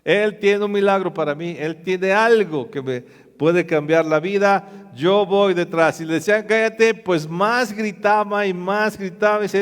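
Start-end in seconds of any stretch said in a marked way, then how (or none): 0.0-6.0 determined resolve. Acted. 6.4-6.9 shouted hush. Acted. Crowd hushing Bartimeo.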